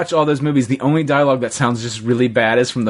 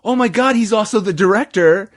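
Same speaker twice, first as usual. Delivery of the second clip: much higher, mock startled; surprised recognition; 9 semitones higher than usual. Speaker recalling spotting the actor in Scrooged, high and surprised. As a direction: gasp it out as it dawns on you.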